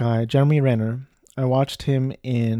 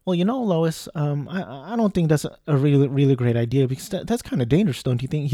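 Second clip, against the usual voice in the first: bumbling, hesitant buffoon with pitch jumping up; Clark Kent; 2 semitones higher, faster than usual. Retold or imitated. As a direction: stammer politely through it like a nervous bumbler. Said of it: "He sounds like a bu-, bumbling buffoon".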